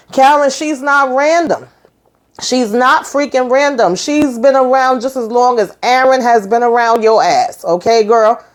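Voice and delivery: exasperated aside. Real, not acted. Speaker's own exasperated aside.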